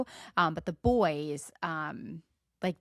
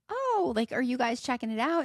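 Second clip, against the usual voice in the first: pitched way up, chirpy; bright, sociable greeting; high friendly small talk; 5 semitones higher than usual. Retold or imitated. Parent greeting another mom, high and chirpy.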